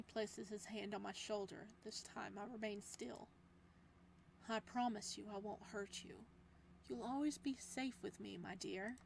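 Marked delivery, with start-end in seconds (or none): 4.5-9.0 soft promise. Acted. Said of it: "His voice is softer".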